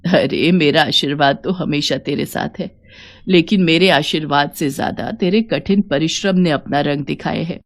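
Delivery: lightly voiced mother-in-law, low and reassuring; a hint of an elder blessing her daughter-in-law; mild motherly mother-in-law.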